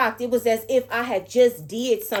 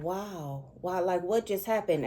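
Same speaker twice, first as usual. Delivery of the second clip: awed; 6 dB quieter than usual. Retold or imitated. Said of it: "and I'm in awe".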